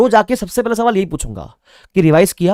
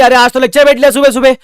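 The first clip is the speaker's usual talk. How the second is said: bragging student, much higher and louder; mock boasting shout; 9 semitones higher, 9 dB louder than usual. Student boasting about attending class once, mock shout. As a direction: crow about one morning lecture. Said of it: "चिल्ला के बोलेंगे".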